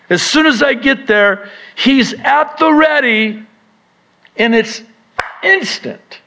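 high, rising sermon build; preaching. Acted. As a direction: preach it up to a peak. Preaching climax.

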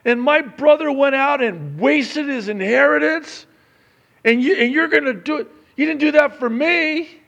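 loud, high, indignant complaint; a jealous brother protesting to his father; resentful older brother. Retold or imitated. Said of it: "He's not happy with this".

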